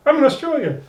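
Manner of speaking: high, teasing Homer voice; Homer taunting. Retold or imitated. Host acting out Homer at the embassy gate, high teasing. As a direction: gloat like a kid hopping a line. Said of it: "he's like".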